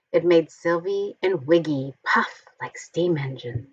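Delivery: lively picture-book storytelling voice; reading to children. A narrator's reading. Reading a Halloween picture book aloud to children, animated storytelling. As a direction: read it like a bedtime story for little ones.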